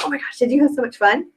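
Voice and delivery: lifted, eager question; acted excitement. Consultant modelling excitement for her customer, excited. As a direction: gush it as an excited host. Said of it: "So if I'm excited, I'm like".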